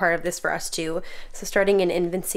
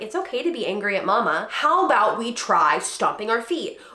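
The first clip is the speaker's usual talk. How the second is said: gentle suggestion. Shown as a demonstration. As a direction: coax the child kindly. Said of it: "I'm like".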